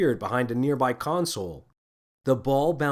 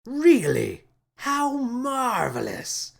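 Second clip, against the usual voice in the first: delighted exclaim; 12 semitones higher, much slower than usual. A narrator's reading. Captain thrilled the ball is harmless, high delighted exclaim. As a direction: gush over it like a giddy child. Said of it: "he exclaimed".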